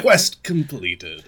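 loud, slow fanfare announcer; game announcement. Acted. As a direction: announce it grandly, high and drawn out. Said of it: "that little bit of fanfare again in the quest".

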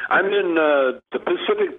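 distant, hollow phone line; down a well. Real, not acted. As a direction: sounds far off down a well. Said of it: "Sounds like he's trapped in the well".

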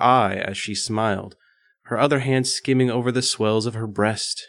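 measured, even read-aloud voice; composed audiobook-style reading; story narration. A narrator's reading. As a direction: narrate it steadily, phrase by phrase. Reads erotic story aloud.

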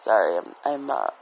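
breathing out smoke between words; audible breathing. Real, not acted. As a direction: talk while puffing a cigarette. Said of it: "puffing on my cigarette there".

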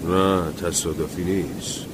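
a lightly hoarse, subdued man, slow at first; grim, choked-back voice; mildly strained grim tone; husky tone. Acted. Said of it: "با لحنی گرفته گفت".

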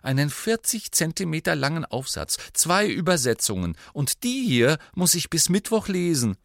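high, mounting fretfulness; worried. A narrator's reading. Hermione lists her homework to friends, worried. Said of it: "sagte sie besorgt".

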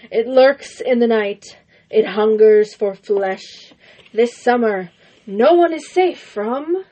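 slow, ominous trailer narration; horror trailer voice. Acted. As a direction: build dread like a horror teaser. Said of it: "A horse with no legs".

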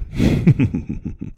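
short breathy sinister chuckle; small clenched evil chuckle; menacing chuckle. Shown as a demonstration. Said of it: "if you clench really hard, then it'll just be like a".

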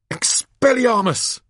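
high, forceful, drawn-out incantation; acted wizard's shout; spell-casting cry. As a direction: fling the spell out sharply. Albus casts a spell.

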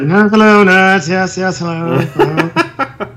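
hammed-up British greeting, slowing at the end; slightly overdone upper-crust British accent. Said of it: "He's British".

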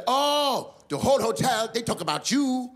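put-on high generic Asian accent, bright. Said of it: "Then she said".

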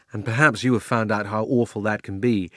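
usual speaking voice

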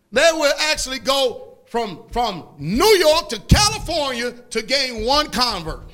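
slow, weighty preacher's delivery; emphatic preaching. Real, not acted. Preacher explaining the verse to church, emphatic and deliberate. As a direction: hammer the key words, pausing between phrases.

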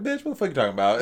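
quick, teasing mock challenge; joking around. Brother kidding his sister, joking around. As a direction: rattle it off lightly, half laughing. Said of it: "like, we're joking around".

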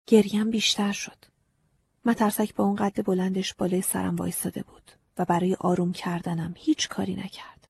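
ordinary delivery

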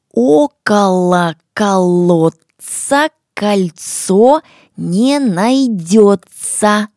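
slow, loud, every sound articulated; crisp and clear. Shown as a demonstration. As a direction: pronounce every word sharply and clearly. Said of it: "Очень хорошо и чётко произносим все слова".

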